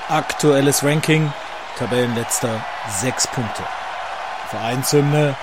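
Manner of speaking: big booming ring introduction; boxing ring announcer. Acted. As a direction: announce each fighter like a title bout. Boxing ring introduction over music.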